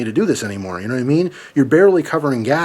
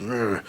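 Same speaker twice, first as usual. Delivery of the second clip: low, quiet disgusted grunt; short mock grumble of annoyance; pissed-off grunt; 3 semitones lower, 9 dB quieter than usual. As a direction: imitate a silently fuming grunt. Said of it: "She was just fucking pissed".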